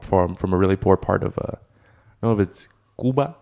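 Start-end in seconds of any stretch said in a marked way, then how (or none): 3.0-3.4 lightly put-on Spanish accent; playful Spanish pronunciation. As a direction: say Cuba with a Spanish accent, just for fun. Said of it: "Why do you say it like that?".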